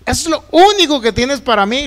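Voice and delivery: mild re-enacted yell of protest; indignant retold complaint; retold cry to God. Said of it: "Una vez le grité".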